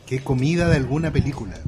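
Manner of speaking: talking through a mouthful; words around a bite of food; mouth full. Real, not acted. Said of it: "Con la boca llena".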